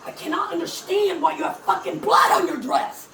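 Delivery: loud furious yell; angry shout. Real, not acted. Demanding the singer explain the blood, angry shout. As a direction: hurl it at her in disbelief.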